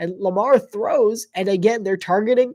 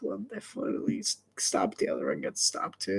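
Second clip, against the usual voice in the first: whispering; 9 dB quieter than usual. Real, not acted. Quiet musing aside.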